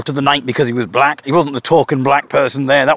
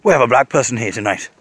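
enthusiastic. Retold or imitated. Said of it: "he became so enthusiastic".

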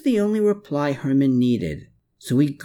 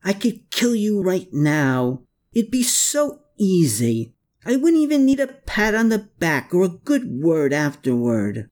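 tearful yell; 8 semitones higher than usual. A narrator's reading. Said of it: "with tears in his eyes he yelled".

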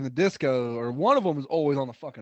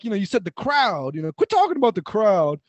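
slightly high mock complaint; Disco; 3 semitones higher, 3 dB louder than usual. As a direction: imitate someone pitched up and objecting. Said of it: "He's all high".

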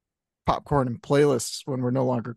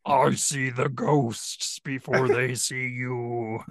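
Winnie the Boo; much slower than usual. Pretend. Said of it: "Winnie the Boo is what that one is".

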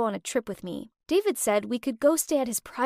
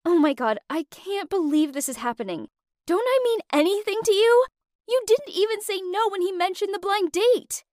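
higher, louder, fuming outburst at him; 8 semitones higher, 4 dB louder than usual. Acted. Lou fuming at her boyfriend over his dad, furious outburst. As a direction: let the fury spill out, climbing higher. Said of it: "I was fuming by this point".

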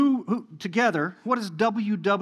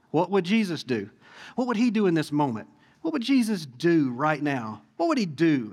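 "do" stressed as the key word. Shown as a demonstration. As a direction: lean firmly on "do" in each question. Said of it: "I'm, I'm really emphasizing the word "do".

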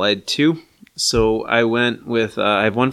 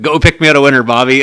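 quoting Roy; 2 semitones higher, 6 dB louder than usual. Retold or imitated.

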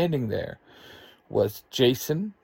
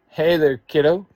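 louder, higher, friendly hello; smiling greeting; 5 semitones higher, 8 dB louder than usual. A narrator's reading. Kim greets her niece with a smile, cheerful. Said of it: "Kim says with a smile".

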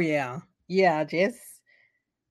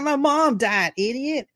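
mock snap; 7 semitones higher, 4 dB louder than usual. She snaps back in retold fight.

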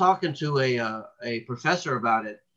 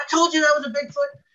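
high, louder mock yell in a put-on woman's voice; retold yelling; 13 semitones higher, 4 dB louder than usual. Wife insists to husband it was Bigfoot, high hammed-up yell. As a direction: shout it like the frantic wife proving her point. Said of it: "she's kinda yelling at her husband".

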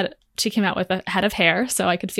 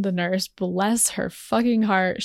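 ordinary delivery

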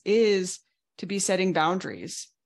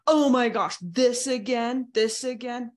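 higher, mock-exasperated groan at the partner; exasperated outburst; 5 semitones higher, 3 dB louder than usual. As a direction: imitate an overwhelmed sigh of this again. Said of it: "big emotional response".

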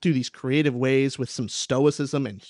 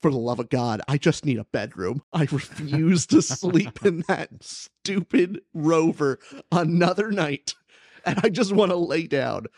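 louder and higher, fed up with sleeping in the rover; mock-exasperated complaint, pushing it out louder; exasperated Mark; 3 semitones higher, 4 dB louder than usual. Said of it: "He's like".

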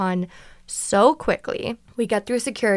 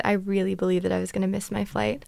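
ordinary delivery

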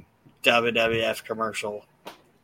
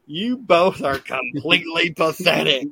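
put-on kid yelling; 5 semitones higher, 4 dB louder than usual. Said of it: "he yells at his parents".

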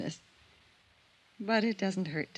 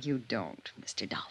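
hushed whisper; 5 semitones lower, 6 dB quieter than usual. Acted. Quiet old woman cuts him off.

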